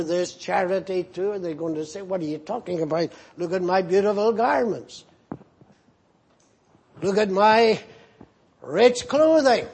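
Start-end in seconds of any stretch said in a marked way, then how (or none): 2.0-9.7 fast, dismissive scoff at the offer; a hint of vain pride, rattled off quickly; proud refusal. Preacher plays a ragged person boasting of rich clothing, fast and scoffing.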